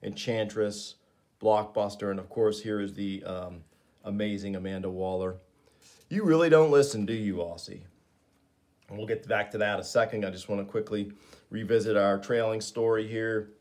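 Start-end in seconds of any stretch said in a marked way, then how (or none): 6.1-7.8 exasperated scold. Acted. Waller scolds Boomerang.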